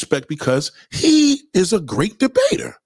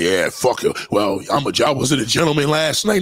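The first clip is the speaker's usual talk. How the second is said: deep, careless shrug of a voice; low dismissive voice; 3 semitones lower than usual. Retold or imitated. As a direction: brush it off, low and lazy. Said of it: "The black motherfuckers be like".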